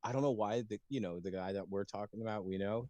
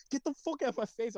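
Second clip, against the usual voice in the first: retold yell; 14 semitones higher than usual. Yelling at mom in shower.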